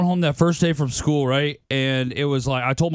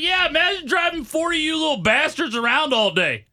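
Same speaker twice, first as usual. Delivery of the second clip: mock exasperated mom; 7 semitones higher than usual. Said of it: "She's like".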